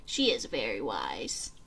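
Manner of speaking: whispering starfish. A narrator's reading. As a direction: whisper it like a secret. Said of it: "said the starfish".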